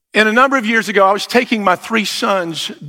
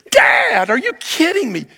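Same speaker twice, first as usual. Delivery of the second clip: Dad jumps way up in pitch, excited disbelief; incredulous kid; 9 semitones higher than usual. Retold or imitated. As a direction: squeal at Dad as if he can't believe it.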